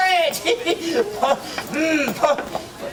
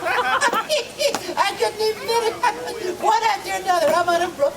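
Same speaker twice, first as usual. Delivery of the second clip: laughing; 10 semitones higher than usual. Real, not acted. Gnome laughs at himself.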